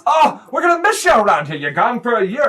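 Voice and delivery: loud, high fatherly wail; guilt-trip your son with big feeling; hammed-up heartbroken dad; lamenting stepdad.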